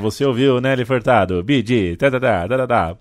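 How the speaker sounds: a hint of a cheesy radio DJ, playing to the mic; mock FM radio DJ. Host mocking a radio DJ, lightly cheesy. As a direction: lightly mimic a bored FM host introducing a song. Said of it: "liga o mic e fala".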